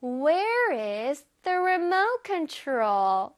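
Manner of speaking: very slow, drawn-out model sentence; slowed-down demo. Shown as a demonstration. Teacher leads children through the question, slowly. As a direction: stretch each word out for learners to follow. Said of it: "이거를 천천히 해보자".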